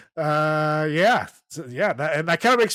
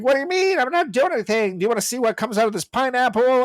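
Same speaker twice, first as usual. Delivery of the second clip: high, sweet innocent voice; mock innocent voice; 8 semitones higher than usual. Mimicking Lindsay talking to the mom, high and sweet. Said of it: "It's like".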